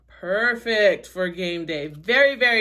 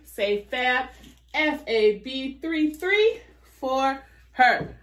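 cheerleader; 3 semitones higher, slower than usual. Real, not acted. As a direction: chant the code like a cheerleader. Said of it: "I sound like a cheerleader".

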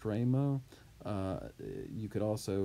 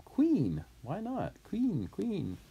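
snappy retort; 10 semitones higher, slower than usual. Shown as a demonstration. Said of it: "a great way to answer somebody".

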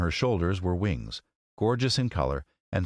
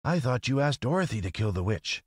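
higher, mildly puzzled scarecrow; a touch of surprise, pitched up; surprised; 6 semitones higher than usual. A narrator's reading. Scarecrow querying the lady's bargain, surprised. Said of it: "said the scarecrow in surprise".

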